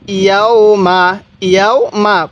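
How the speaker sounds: মা kept short with no stretch; no elongation. Shown as a demonstration. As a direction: say মা without any drawl on the vowel. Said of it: "কোনো টান দিব না".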